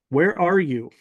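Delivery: lightly imitated booming question; a touch of a commanding mystery voice. Mysterious voice asks the narrator's whereabouts, mildly mock-booming. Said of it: "It says again in a loud".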